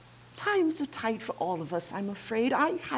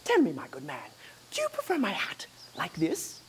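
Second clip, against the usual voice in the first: fussy gentleman. Acted. Fop hat-seller.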